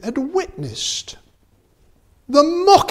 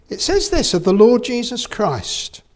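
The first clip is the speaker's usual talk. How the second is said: ordinary delivery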